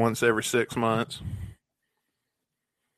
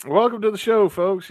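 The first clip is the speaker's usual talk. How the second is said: announcer welcome; 9 semitones higher, 6 dB louder than usual. Real, not acted. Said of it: "podcast opening to audience".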